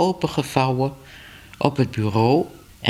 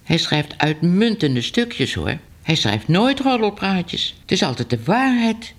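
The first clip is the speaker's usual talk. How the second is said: higher-voiced, anxious newspaperman; nervous editor; 5 semitones higher than usual. Editor nervously defending his reporter to Ellemeet. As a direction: defend the reporter, a bit timid.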